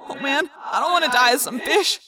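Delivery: distressed, pained wail; crying out. A narrator's reading. Wounded friend fearing death as a fish, distressed cry. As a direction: lament through the pain. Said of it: "Marco cried".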